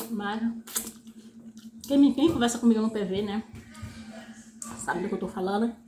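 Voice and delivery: talking between bites; speaking around food; mouth full, chewing. Real, not acted. Seen 4: Eats fries then chicken; visibly chewing, mouth full while talking.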